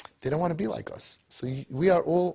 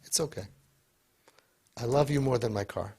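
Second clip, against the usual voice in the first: gentle reassurance; 2 semitones lower than usual. Shown as a demonstration. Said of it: "look at him and say".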